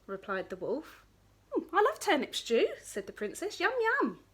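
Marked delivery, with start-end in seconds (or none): 1.5-4.2 high, loud yum; greedy delight. Acted. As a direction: relish every word. Princess delights in stew.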